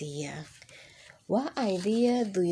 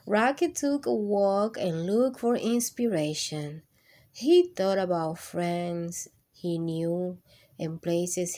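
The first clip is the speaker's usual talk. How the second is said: lively picture-book reading voice; reading to children. Acted. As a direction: read it warmly to a class of kids. Reads picture book aloud.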